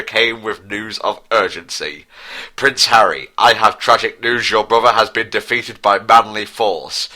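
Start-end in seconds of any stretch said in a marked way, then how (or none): 2.6-7.1 mild panic. Acted. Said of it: "said the messenger with panic".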